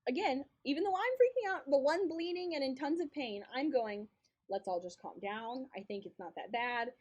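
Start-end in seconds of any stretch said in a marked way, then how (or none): 4.5-6.9 calm reassurance. Retold or imitated. Injured friend settling a panicking room, calm. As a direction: talk them down calmly, unhurried. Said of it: "being very calm".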